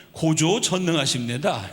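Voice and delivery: slow, mock North Korean accent on 고조 전능하십니다; joking North Korean dialect. College students joking to the lecturer, slow mock North Korean accent. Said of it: "북한 사투리가 아니고".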